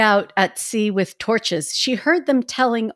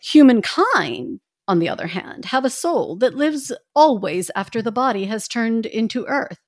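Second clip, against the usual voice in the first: put-on old lady voice. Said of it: "You want me to do the old lady voice?".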